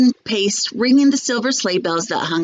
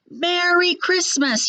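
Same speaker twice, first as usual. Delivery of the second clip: high, slow call through cupped hands; shouted greeting; 10 semitones higher, slower than usual. A narrator's reading. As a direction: call it from the departing train. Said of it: "he shouted".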